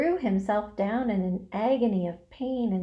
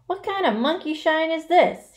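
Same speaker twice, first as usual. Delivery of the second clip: loud, raised, disgusted complaint; indignant growl; 8 semitones higher, 6 dB louder than usual. A narrator's reading. Rat tossed out of sleep, indignant growl. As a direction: complain crossly, rudely woken. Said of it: "he growled".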